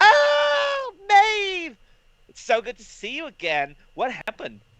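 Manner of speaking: slightly camp, very high, swooping squeal of joy. Playing a character who sees Maeve again, slightly camp squeal of joy. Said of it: "a slightly camp squeal".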